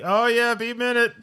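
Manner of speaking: high, put-on casual voice; squeaky fake calm stalling; mock nervous excuse. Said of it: "And he's like".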